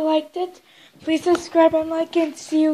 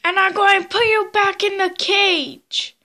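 excited toy chase; 3 semitones higher, 4 dB louder than usual. Pretend. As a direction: yell after the runaway toy. Toy chase, pursuer and escapee.

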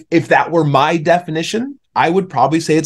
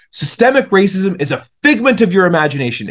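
retold angry man; 6 semitones higher than usual. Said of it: "And he was so mad".

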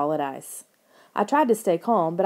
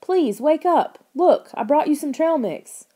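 much higher, loud desperate plea; begging; 8 semitones higher, 5 dB louder than usual. A narrator's reading. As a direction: beg a frozen creature to wake. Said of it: "I begged".

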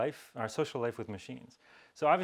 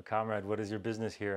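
put-on thick Slavic accent. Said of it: "it asks you in a thick Slavic accent".

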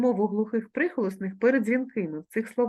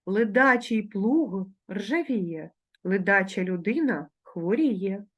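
slow, deliberate reading; slow careful reading; slow proverb reading; slower than usual. Shown as a demonstration. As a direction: read slowly so the class can repeat. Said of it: "вимовляючи дзвінки приголосні ... дзвінко".

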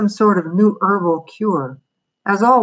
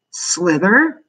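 hopeful; 7 semitones higher, slower than usual. Acted. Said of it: "Bobby asked hopefully".

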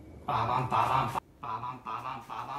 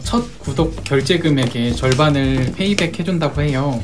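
ad read; 5 dB louder than usual. Acted. Sponsored product ad read.

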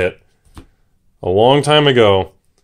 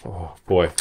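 out of breath; 3 semitones lower, 4 dB quieter than usual. Real, not acted. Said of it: "I'm out of breath".

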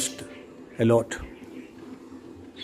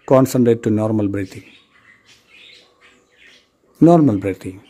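guided meditation; 3 dB louder than usual. Real, not acted. Teacher guiding students to observe their senses and breath, measured meditation instruction. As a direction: guide them firmly, with long pauses between phrases.

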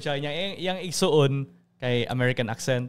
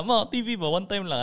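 higher whiny plea to mom; whiny pleading; 5 semitones higher than usual. Retold or imitated. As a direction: beg like a nagging kid. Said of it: "Ana ko sa ilatas".

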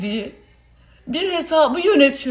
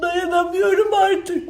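hyperventilating; 2 semitones higher than usual. Real, not acted. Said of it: "nefes alamıyorum".

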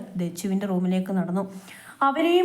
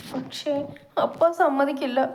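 choked up; 4 semitones higher than usual. Acted. Girl fearing her father's refusal, choked up. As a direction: say it with a lump in the throat. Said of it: "Dachu വിങ്ങിപ്പെട്ട് പറഞ്ഞത്".

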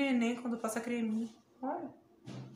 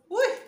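pained yelp; 11 semitones higher, 9 dB louder than usual. Real, not acted. Mask pulls again.

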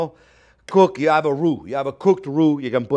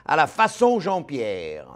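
full French pronunciation. Shown as a demonstration. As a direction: show off a native French accent. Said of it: "You have to be French to say that".

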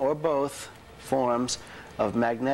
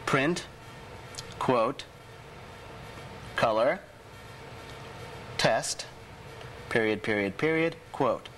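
dictating. Shown as a demonstration. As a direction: read each code word out clearly. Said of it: "Okay, let's go to it".

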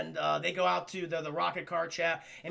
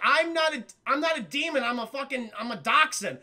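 indignant; 4 semitones higher, 4 dB louder than usual. Retold or imitated. Indignant dog.

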